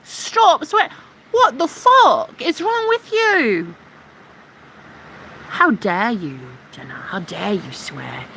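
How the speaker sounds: mocking prissy troll. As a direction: sneer it like a scandalised prude. Mocking troll then mock outrage.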